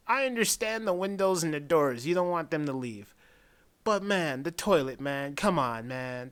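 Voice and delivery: a joking fan scolding the demon over the toilet; mock outrage. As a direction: protest like the movie personally wronged you.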